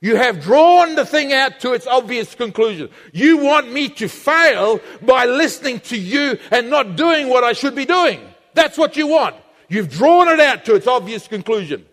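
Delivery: unmask the tempter with growing force; rising confrontation. Acted. The believer exposing the tempter, building to fierce accusation. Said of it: "He says".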